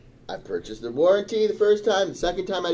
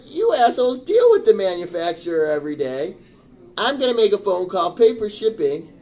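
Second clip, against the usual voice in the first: angry retold rant; 5 semitones higher, 4 dB louder than usual. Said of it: "I'm starting to get louder".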